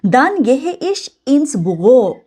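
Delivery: very slow, careful German reading; slow model reading. Shown as a demonstration. Teacher reads the German example slowly for learners. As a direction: read it out slowly so students follow. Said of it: "teacher reads example slowly".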